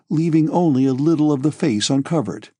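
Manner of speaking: ordinary delivery, nothing marked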